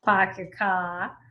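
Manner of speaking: "park your car" as "pahk ya kah", slow; Maine accent. Shown as a demonstration. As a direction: drop every R, Maine style. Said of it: "We say".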